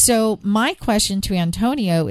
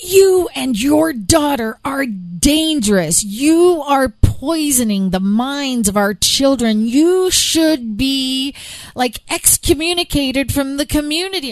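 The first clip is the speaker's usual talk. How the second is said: acted-out yelling, much higher, slower; 5 semitones higher, 3 dB louder than usual. Speaker acts out a man who confronted them and their daughter, imitating a man yelling. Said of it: "literally started yelling at us saying".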